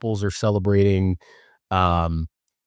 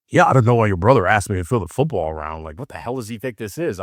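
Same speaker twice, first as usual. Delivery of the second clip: a lightly voiced grumpy dad; sister's mild take on dad griping about his son; imitating dad. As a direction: retell dad's baffled grumble in his voice. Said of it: "imitating his voice 'cause he talks like this".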